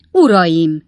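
a loud call to the gentlemen; crying out. A narrator's reading. Pickwick to the fighting men, crying out loudly. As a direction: call out to stop them. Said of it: "kiáltott fel Pickwick úr".

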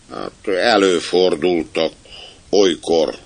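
slow, careful admission; cautious. Acted. Captain answering whether ghosts exist, cautious. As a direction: admit it warily, drawing the words out. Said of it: "mondta óvatosan".

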